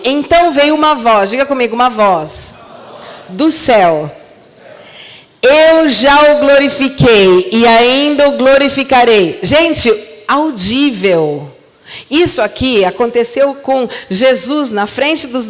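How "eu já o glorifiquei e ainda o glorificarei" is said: slow, solemn voice of God; a slow, solemn heavenly voice. Acted. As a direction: boom it out like God speaking from the sky.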